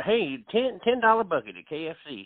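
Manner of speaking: mock KFC voiceover. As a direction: sell it like the commercial. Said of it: "He sounds, you know".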